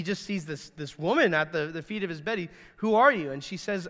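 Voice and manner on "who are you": higher, louder acted startled question; shocked. Boaz to the woman at his feet, acted shock. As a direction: play the startled sleeper challenging a stranger. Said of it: "he's kind of shocked".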